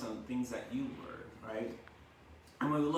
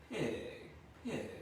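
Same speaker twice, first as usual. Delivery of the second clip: kind voice; 3 semitones higher, 4 dB quieter than usual. Shown as a demonstration. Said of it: "in a kind voice".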